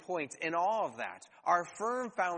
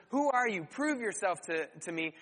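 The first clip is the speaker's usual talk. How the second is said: mocking Pharaoh. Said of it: "Pharaoh is mocking God and says".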